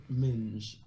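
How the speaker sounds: minge said low and loud; British accent. Shown as a demonstration. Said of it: "like minge".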